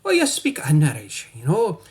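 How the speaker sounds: lightly put-on Irish brogue; lilting mock-Irish chatter; Irish accent. Shown as a demonstration. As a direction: demonstrate a playful Irish accent. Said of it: "or Irish".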